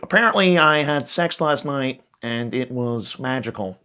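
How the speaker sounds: slow, lightly voiced kid bragging; a hint of the viral kid, drawn out; imitating the Apparently kid. Comedian pictures the grown kid bragging, lightly voiced slow kid. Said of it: "that kid".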